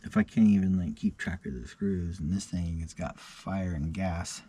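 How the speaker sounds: talking around whitening strips; words slightly blurred by a tray. Real, not acted. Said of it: "I still have my whitening strips in".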